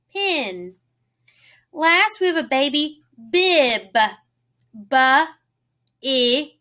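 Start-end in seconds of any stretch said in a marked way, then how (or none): 4.7-6.5 "B-I-B" as buh, ih, buh; sounded out. Shown as a demonstration. Teacher helping children hear a vowel, "B-I-B" as buh, ih, buh. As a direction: split "B-I-B" into separate letter sounds with gaps. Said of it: "Do you hear that I sound?".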